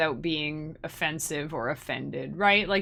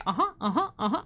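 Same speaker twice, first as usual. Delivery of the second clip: cute order-taker; 2 semitones higher, faster than usual. Retold or imitated. Restaurant worker confirming each item, cute imitation. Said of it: "it's so cute".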